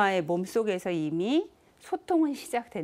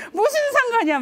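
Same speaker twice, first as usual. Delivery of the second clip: much higher, louder yell, 무슨 hit hard and falling; furious shout; 8 dB louder, faster than usual. Retold or imitated. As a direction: explode with 무슨 상관이야. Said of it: "화를 내신 거예요".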